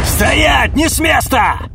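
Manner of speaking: loud high police command; shout. Acted. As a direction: freeze everyone. Guards raid the hangar.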